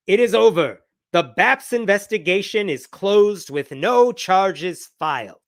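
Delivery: put-on emphatic quote read in a light Indian accent. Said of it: "this is my Indian accent".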